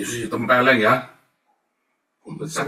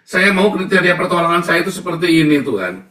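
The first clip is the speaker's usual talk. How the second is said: loud, higher, insistent demand to God; demanding believer; 6 semitones higher, 8 dB louder than usual. Retold or imitated. Preacher voicing a believer dictating to God, loud insistent demand. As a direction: insist on your own terms. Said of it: "memilih pertolonganmu sendiri".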